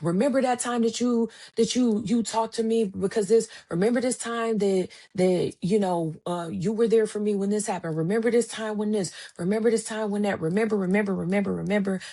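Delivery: a hint of excited friend reminding. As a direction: rattle off each memory, building. Friend listing past favours.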